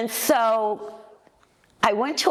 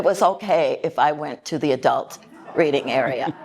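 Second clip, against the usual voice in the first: amused, chuckling as you tell it; laughing; 3 semitones lower than usual. Real, not acted. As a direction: laugh through the memory. Laughs recalling permission slip.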